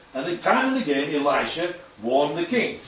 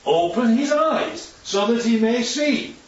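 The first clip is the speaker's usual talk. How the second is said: prophet praying; 5 semitones higher, slower than usual. Acted. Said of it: "Elisha prayed".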